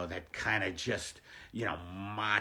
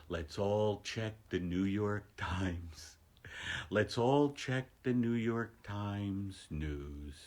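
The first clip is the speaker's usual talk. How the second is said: mock meditation; 4 dB quieter, slower than usual. Mock meditation derailed into news checking.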